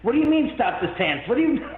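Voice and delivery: mock the psychics' shocked protest; incredulous psychics. Psychics protesting the stopped seance, high incredulous. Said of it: "both psychics say".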